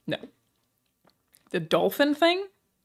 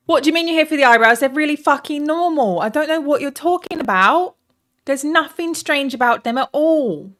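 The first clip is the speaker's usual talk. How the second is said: mock defensive; 6 semitones higher, 5 dB louder than usual. Defending her odd eyebrows to chat.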